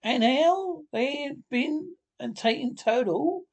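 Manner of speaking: high, slow, emphatic exclamation; dramatic revelation. A narrator's reading. Rat telling Toad his house is taken, dramatic. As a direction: stretch it out high with indignation. Rat breaks dreadful news.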